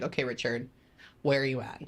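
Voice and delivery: toned-down melancholy call. Retold or imitated. Medium retelling her calmer second call to the father, subdued. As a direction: call again but calmer and a bit blah. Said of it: "I get a little bit more melancholy".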